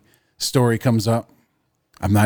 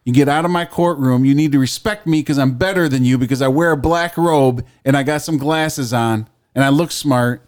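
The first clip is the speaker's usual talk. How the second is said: mock-pompous courtroom tirade, a bit higher and louder; hammed-up scolding judge; indignant judge; 4 semitones higher, 4 dB louder than usual. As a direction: berate the defendant from the bench. Skit as an angry judge.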